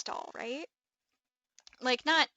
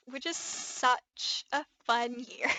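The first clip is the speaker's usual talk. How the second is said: teary; slower than usual. Real, not acted. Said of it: "I could for real cry".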